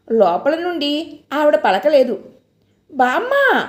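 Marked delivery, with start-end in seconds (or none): 2.9-3.6 calling again. A narrator's reading. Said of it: "ఇంకోసారి పిలిచింది".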